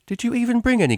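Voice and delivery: sharp, exasperated question; irritable. A narrator's reading. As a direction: snap out the question in frustration. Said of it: "she asked irritably".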